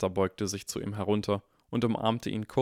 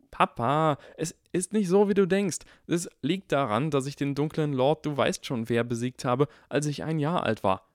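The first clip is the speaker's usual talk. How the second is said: higher, louder rushed defence; hurried explaining; 6 semitones higher, 3 dB louder than usual. Acted. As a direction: talk fast to calm Papa. Harry explains in a rush. (hastig erklärender Harry, höher)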